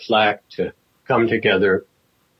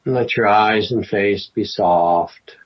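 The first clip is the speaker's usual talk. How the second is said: guided meditation. Acted. Teacher settling the class into a sitting practice, guided meditation. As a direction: ease them gently into stillness, phrase by phrase.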